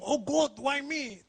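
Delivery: slow, high, drawn-out lament; mock despair. Fan asking after illness, slow mock lament. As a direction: wail it slowly to the sky. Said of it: "saya nggak berani lah ngomong".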